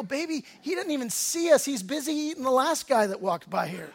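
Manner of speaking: lightly laughing, half-teasing; joking reassurance. Retold or imitated. Husband joking to calm his scared wife, laughing. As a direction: crack a dark joke to calm her. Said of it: "trying to lighten it up".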